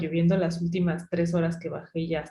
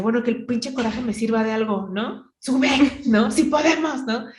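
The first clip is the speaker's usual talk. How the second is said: raised, fired-up urging to herself; angry self-pep talk; 5 semitones higher than usual. Retold or imitated. Hiker spurring herself uphill, angrily. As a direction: push yourself on with anger. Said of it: "yo iba tan encabronada que decía".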